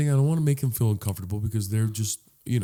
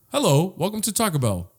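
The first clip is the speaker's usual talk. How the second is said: mock drive-thru greeting, pitched up; recorded message; 5 semitones higher than usual. Voice message greeting a Taco Bell customer, recorded-sounding. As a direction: recite it like a voice message. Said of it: "the message is like".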